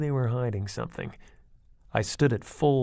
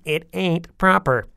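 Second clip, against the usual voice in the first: giggling scold; 7 semitones higher, 9 dB louder than usual. A narrator's reading. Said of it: "then giggling".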